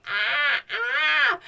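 two loud open-mouthed ahs. Acted. Disguised giant baby opening up for the finger, saying ah.

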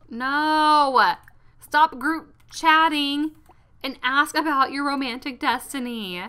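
loud exasperated scolding; mildly angry. Real, not acted. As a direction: stretch it out, bossy and fed up. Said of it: "I'm getting angry".

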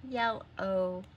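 YELLOW split as yell, then a held O; long O. Shown as a demonstration. Teacher demonstrating the end sound, YELLOW with a separated long O. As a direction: stretch the final O of YELLOW as its own syllable. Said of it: "Do you hear the long O?".

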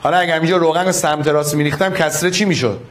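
quick repeated question. Shown as a demonstration. Teacher repeats the question to the class quickly. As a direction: rattle the question off fast.

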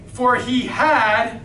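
"had" drawn out slowly; stress on HAD. Shown as a demonstration. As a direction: lean long on the word "had". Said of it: "this is a past tense thing".

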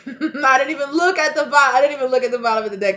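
real laugh bubbling through the words. Real, not acted. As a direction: laugh it out, quick and surprised. Laughs at her own card.

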